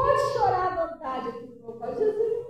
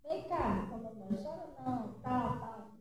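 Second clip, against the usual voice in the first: soft soothing; 6 semitones lower, 10 dB quieter than usual. Retold or imitated. Grandmother soothing crying granddaughter.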